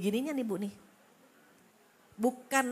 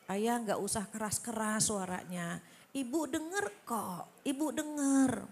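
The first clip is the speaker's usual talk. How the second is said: gentle wife. Retold or imitated. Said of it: "kita yang ngalah".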